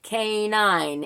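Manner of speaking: stretched-out, slow K nine; drawn out. Retold or imitated. Imitating the AI narrator's misreading, drawn out. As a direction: linger on both syllables. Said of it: "kinda drew it out".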